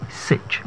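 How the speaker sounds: sitch breathed with no voice, just the ending sound; whispered sitch. Shown as a demonstration. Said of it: "The A there is an E sound".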